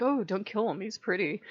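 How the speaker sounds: lightly voiced smitten plea; a hint of a lovestruck queen, understated; smitten pirate queen. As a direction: gently imitate a smitten plea.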